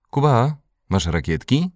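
high-pitched calling question. A narrator's reading. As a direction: call over to a friend. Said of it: "zawołał Dominik".

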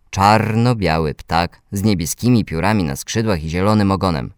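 ordinary delivery

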